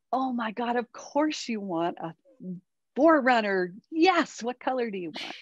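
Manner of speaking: mock gushing, rising on yes; delighted mom. Mom gushing to her daughter about the car, mock delight. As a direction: cheer her on like it's the best idea. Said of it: "So instead, I said".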